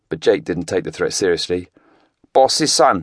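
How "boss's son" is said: higher, cheeky Welsh lad teasing; teasing Welsh teen. A narrator's reading. Teenager teasing Craig on the stairs, cheeky Welsh. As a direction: needle the big man cheekily. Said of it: "he teased".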